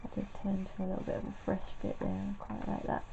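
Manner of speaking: soft, quick mumble; mumbling. Real, not acted. Painter remarking on a fresh bit, mumbling. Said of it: "I'm mumbling a bit there".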